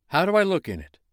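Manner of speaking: high, loud pleased snowman. Acted. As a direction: show off the new hat. Snowman tries hat.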